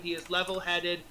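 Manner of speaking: usual speaking voice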